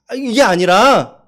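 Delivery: ordinary talk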